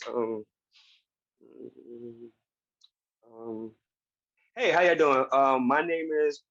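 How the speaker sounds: nervous halting hello, stumbling on every um; terrified first live stream. Retold or imitated. Recalling his bad first live stream, a nervous stumbling greeting. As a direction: fumble the intro like a scared first-timer. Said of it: "it went something along the lines of this".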